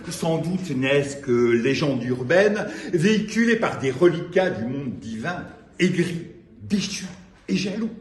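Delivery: declaimed poem with deliberate pauses between phrases; measured spoken-word reading; poetry recital. Acted. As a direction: recite phrase by phrase, swelling and dropping away. Reads own poem aloud to audience.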